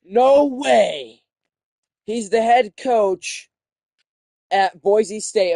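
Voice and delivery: loud, slow amazed no way; shocked disbelief. Real, not acted. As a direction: gasp it out in disbelief. Shocked by a coach reveal.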